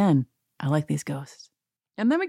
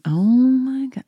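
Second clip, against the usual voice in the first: gleeful reaction; 7 semitones higher, 5 dB louder, slower than usual. Acted. Her own imagined gleeful reaction.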